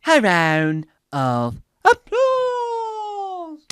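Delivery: high, slow, stretched-out announcement; showman's call. Pretend.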